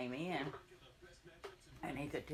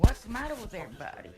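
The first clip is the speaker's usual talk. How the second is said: puzzled call; 6 semitones higher, 7 dB louder, faster than usual. Retold or imitated. Brother walking into crying family.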